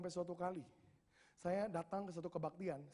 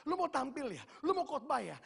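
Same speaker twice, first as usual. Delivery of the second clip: high, louder incredulous questions; voiced bystanders asking in raised, bewildered disbelief; puzzled onlookers; 8 semitones higher, 5 dB louder than usual. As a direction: imitate baffled people challenging a newcomer. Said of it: "orang waktu itu lihat dan bingung".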